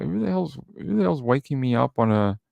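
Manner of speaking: mock indignation. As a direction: act out an exasperated "who's this?". Woken by intercom, acted thought.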